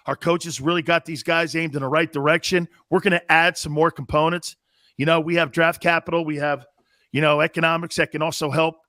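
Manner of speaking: a hint of a smooth executive dodging questions; sports radio host mimics the GM at a presser, lightly low and bland; Howie Roseman press conference. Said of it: "I could probably do the Howie Roseman press conference".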